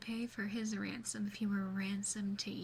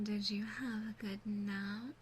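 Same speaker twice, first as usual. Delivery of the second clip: ordinary talk, nothing marked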